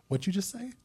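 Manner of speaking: high, laughing disbelief; mock shock. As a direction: gasp it out like you can't believe it. Retelling his shocked reaction.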